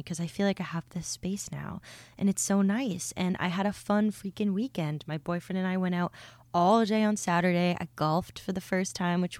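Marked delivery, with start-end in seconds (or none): 0.0-3.1 whispering. Real, not acted. Soft reflective aside.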